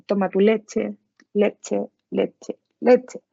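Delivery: echolalic repetition. Shown as a demonstration. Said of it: "la ecolalia es la repetición de alguna palabra".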